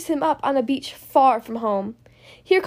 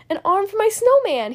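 put-on cheerful boy; 6 semitones higher than usual. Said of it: "he says with a laugh".

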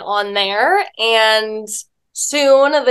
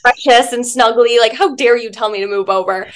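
mock indignant. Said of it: "just immediately get angry".

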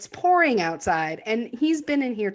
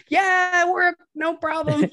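mock cheerful congregation; 10 semitones higher, 5 dB louder, slower than usual. Congregation voiced, carefree after she vanishes.

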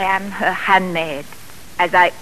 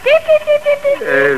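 high sing-song chicken call. Acted. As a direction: call the hens to feed, high. Feeding the chickens, calling them.

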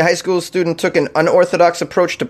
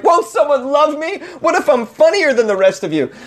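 put-on whiny lovelorn teen; 12 semitones higher than usual. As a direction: beg like a lonely teen. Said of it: "I was like".

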